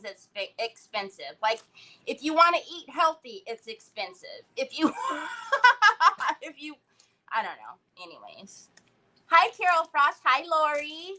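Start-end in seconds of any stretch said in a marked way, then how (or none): 5.0-6.4 high, loud burst of laughter; sudden cackling laugh. Real, not acted. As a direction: break up laughing mid-rant. Laughs mid-rant about prices.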